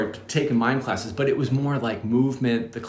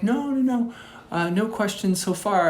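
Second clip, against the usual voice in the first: quick reassurance; 10 semitones higher than usual. Retold or imitated. Retold reassurance to caller on phone.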